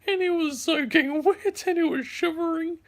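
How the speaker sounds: high, giggly telling through laughter; laughing while talking. Real, not acted. Laughing while describing wet dog.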